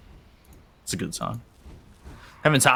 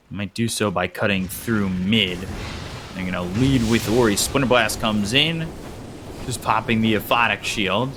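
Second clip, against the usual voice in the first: steady game commentary rising in pitch at key plays; play-by-play caster building in energy; live esports play-by-play. Acted. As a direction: call the match live, building towards the push.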